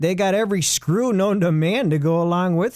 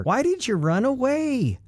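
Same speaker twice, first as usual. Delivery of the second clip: comic panic; 8 semitones higher than usual. Acted. Narrator spirals into comic panic.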